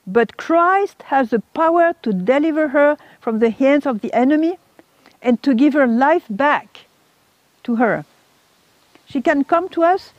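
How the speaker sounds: mild mock cry of a preaching woman; retold strong screaming. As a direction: proclaim it forcefully to the assembly, imitating her. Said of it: "she was screaming, you know, very strongly".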